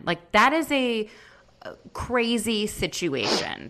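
hushed conspiratorial whisper. Real, not acted. Podcaster gossiping about a castmate's money, whispering. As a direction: drop to a secretive whisper, slowing down.

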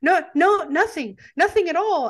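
lightly voiced wistful film narrator listing what's lost; mock narrator voiceover. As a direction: ham up the film narrator mourning the turkey. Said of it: "Gene Shepard is kinda doing a voiceover".

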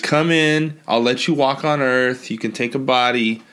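lightly voiced New York wheeler-dealer; a hint of New Yorker offering a deal; New York accent. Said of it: "has a New York accent".

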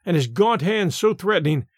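ordinary delivery

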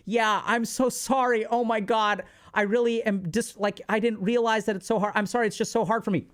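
a touch of exaggerated helpless sorry; fake weak apology. Telling the bully, hammed-up weak apology. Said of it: "Be weak".

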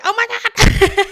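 high, loud disbelieving oh my God into a laugh; shocked laugh. Retold or imitated. Retelling the therapist's bracelet, shocked laughing. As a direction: gasp it out then crack up laughing.

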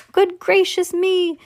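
high, slow storybook amazement; astonished exclamation. A narrator's reading. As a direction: draw it out in mock astonishment. Husband watches wife tumble away.

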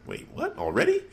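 high, sudden disbelief; surprised. Real, not acted. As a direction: catch yourself in shock. Reacting to quick title match.

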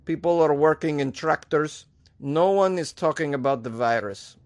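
a hint of a mock Belarusian accent; lightly imitating a Belarusian leader; mild mock Eastern European accent. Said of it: "I'd imagine it's something like that".

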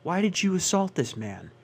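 a puzzled judge asking why; imitating a judge. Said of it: "the judge would go".

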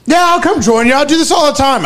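a hint of a bragging newbie; mock wannabe. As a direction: play the poser acting tough. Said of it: "he's gonna pretend like he's one of the guys".

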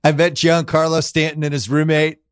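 lightly voiced boastful Trump; a hint of Trump bragging; Trump impression. Host pretending to be Trump at the game, light boastful impression.

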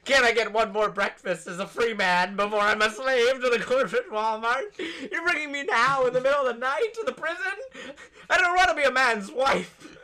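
high, loud, hammed-up child's protest; mock desperate plea. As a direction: plead indignantly like a melodramatic condemned prisoner. Child protesting being taken to "prison.

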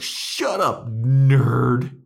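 high, loud mock shout; mock group yell. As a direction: yell it like heckling a nerd. Retelling group yelling at Jonathan.

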